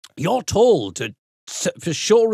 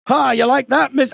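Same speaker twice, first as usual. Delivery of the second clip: higher, louder pretend boast; mock triumphant gloating; 10 semitones higher, 4 dB louder than usual. Award winner gloating to the old teacher, mock triumph. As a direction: crow at the old teacher in jest. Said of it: "I could have done a big".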